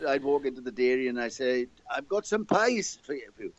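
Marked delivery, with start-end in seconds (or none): 1.9-3.5 slow, higher Welsh voice leaning on "pies"; Welsh accent. Retold or imitated. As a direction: sell the pies in a broad Welsh accent, slowly. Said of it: "The Welsh say pies".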